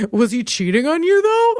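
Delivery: nosy gossip voice, high on though; mock the busybody asking; a high, prying mock question. Mocking people's reactions.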